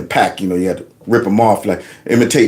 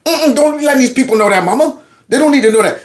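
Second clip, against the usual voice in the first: put-on very high, whiny kid protest; comic high-pitched embarrassed kid; mock embarrassed pleading. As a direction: squeal it like a mortified child hushing mama. Embarrassed child hushing his mother.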